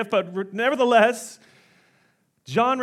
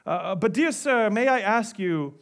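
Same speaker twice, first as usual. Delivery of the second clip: polite British parrot asking hesitantly; put-on British accent, courteous question. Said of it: "he has a British accent".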